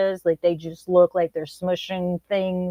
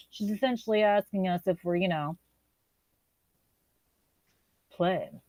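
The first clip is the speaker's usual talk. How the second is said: husband's embarrassed explanation; 7 dB quieter than usual. Retold or imitated. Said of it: "And he goes".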